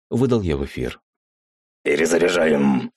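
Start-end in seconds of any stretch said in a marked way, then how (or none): 1.8-2.9 puffing from heavy work; out of breath, straining. Acted. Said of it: "пыхтящий голос напарника".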